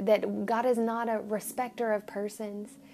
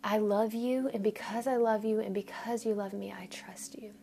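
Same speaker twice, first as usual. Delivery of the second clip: quiet, fading to a whisper; humble whispered apology to God; soft prayer; 5 dB quieter than usual. Retold or imitated. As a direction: pray it tenderly, almost breathing it. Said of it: "and say".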